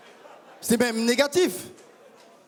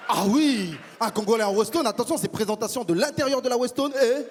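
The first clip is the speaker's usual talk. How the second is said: proud Congolese man. Acted. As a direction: play a pompous Congolese gent musing on love. Congolese persona on stage.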